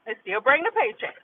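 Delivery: quick, dropped to a murmur; quick quiet repeat. Acted. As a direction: say it again under your breath.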